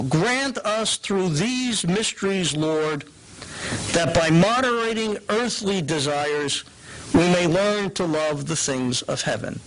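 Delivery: slow, measured prayer reading. Shown as a demonstration. Teacher reads the Lent post-communion prayer, liturgical. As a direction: read it as liturgy, unhurried. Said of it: "very simple example".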